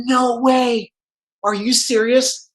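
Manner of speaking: lightly exclaimed incredulity; mild mock disbelief. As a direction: act out hearing unbelievable news. Acting out shock at news.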